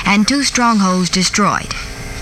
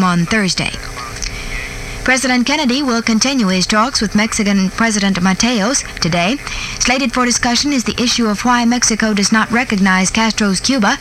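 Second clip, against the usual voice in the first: put-on old newsreel. Reads the radio news bulletin.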